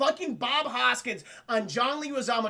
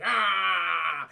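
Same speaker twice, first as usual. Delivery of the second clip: imitated "ah"; 3 semitones lower, 4 dB louder than usual. Toad, now a Goomba, vocalizes.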